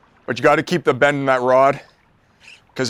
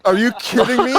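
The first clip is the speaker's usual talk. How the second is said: surprised disbelief; 6 semitones higher than usual. Real, not acted. Big fish lands on the line.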